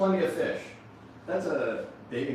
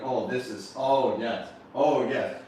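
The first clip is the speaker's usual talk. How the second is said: pleasured oh yes; 2 semitones lower, slower than usual. Acted. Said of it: "you're like".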